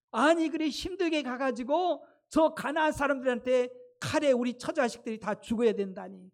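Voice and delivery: indignant complaint in the people's voice; acted grumbling. Israelites protest dying by the sword in Canaan, acted grumbling. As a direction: grumble in disbelief at the coming fate. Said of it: "그러면서 막 원망하는 거예요".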